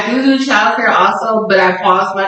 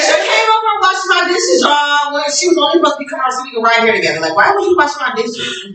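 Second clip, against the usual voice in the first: excited gripe; 8 semitones higher, faster than usual. Real, not acted. Excited gripe about her sister.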